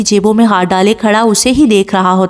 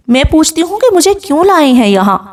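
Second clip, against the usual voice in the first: higher-pitched, indignant demand; angry questioning; 7 semitones higher than usual. A narrator's reading. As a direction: demand an explanation from the husband. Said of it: "وہ غصے سے اس کے سامنے کھڑی سوال کرتی ہے". (غصے سے سوال)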